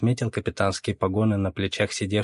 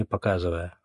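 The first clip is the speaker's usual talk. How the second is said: ordinary delivery, nothing marked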